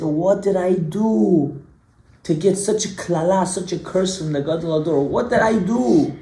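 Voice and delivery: imitated anguished plea, drawn out; mock a distressed wail without real tears; retold tearful lament. Man crying on the staircase over his curse, imitated lament. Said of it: "he starts to cry".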